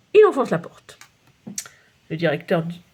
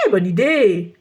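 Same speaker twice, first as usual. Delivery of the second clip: exclaiming; 4 dB louder, slower than usual. Acted. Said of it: "s'exclame Rufus".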